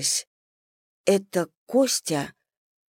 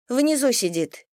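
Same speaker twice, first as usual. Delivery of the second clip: детский голосок; 6 semitones higher than usual. A narrator's reading. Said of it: "подсказала Даша".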